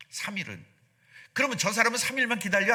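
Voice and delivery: ordinary talk, nothing marked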